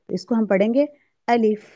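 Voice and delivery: teacher models अलिफ, short a, light f at the end; correct Arabic alif. Shown as a demonstration. Teacher showing students how to say अलिफ, correct pronunciation. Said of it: "आलिफ भी नहीं पढ़ेंगे".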